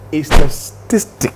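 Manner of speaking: slow, halting "statistic"; careful, slow. Real, not acted. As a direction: feel your way slowly through "statistic". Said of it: "Say it slowly".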